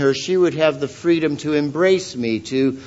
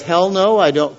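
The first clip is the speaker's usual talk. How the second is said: a light hint of a stubborn refusal; defiant sinner. Preacher voicing an unrepentant brother, lightly defiant. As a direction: toss off a mild mock no. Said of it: "And he says".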